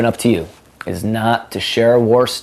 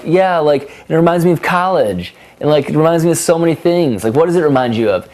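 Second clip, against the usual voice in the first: higher and louder, gushing about the song; excited gushing; 7 semitones higher, 3 dB louder than usual. Retold or imitated. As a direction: gush like the song just made your night. His excited remark about the song.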